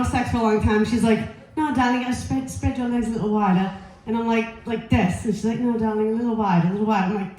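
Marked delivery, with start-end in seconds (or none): 1.6-3.7 lightly imitated British accent; British gynecologist. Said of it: "she's British". 5.6-7.1 lightly imitated British accent; British gynecologist. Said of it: "she's British".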